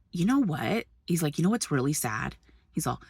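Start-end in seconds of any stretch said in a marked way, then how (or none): 0.1-0.8 softened, unbothered imitation; totally chill. Husband replies to the yelling man, totally chill. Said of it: "Victor's totally chill". 1.4-2.4 low, soft, unbothered imitation; totally chill. Husband replies to the yelling man, calm and low. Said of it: "Victor's totally chill".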